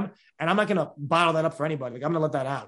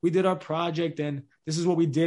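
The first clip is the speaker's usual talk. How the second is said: reading off slide. Retold or imitated. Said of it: "And they're reading off the slide".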